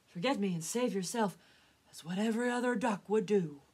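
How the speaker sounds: loud papa duck insisting; insistent plea. Acted. Wounded papa telling his son to flee, loud and insistent.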